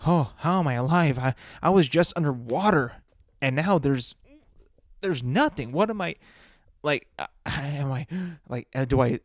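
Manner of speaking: put-on a baby bewildered by breathing, blurting questions; newborn's panic. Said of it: "Is he thinking, like".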